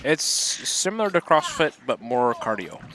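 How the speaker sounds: talking while chewing; words round a bite of food; mouth full. Real, not acted. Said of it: "I just caught him mid, uh, mid bite".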